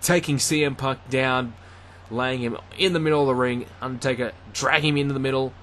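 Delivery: live ringside play-by-play, rising with the action; wrestling commentator. Acted. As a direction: call the match as it happens.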